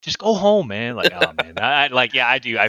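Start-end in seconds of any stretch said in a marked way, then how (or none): 0.0-0.9 dismissive. Retold or imitated. Brushing off little brother.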